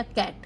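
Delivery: कैट in a single go; one unbroken syllable. Shown as a demonstration. Teacher explaining she did not pause, कैट said in one beat. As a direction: say कैट at once, without stopping inside it. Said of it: "मैंने एकदम से बोल दिया".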